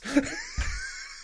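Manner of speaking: high shrieking burst of laughter. Real, not acted. Cracks up at own joke.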